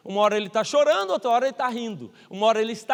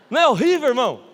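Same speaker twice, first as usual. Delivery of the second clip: louder, outraged appeal to the congregation; loud exclamation; 2 semitones higher, 8 dB louder, faster than usual. Real, not acted. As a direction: burst out at the crowd. Preacher reacts to the comparison.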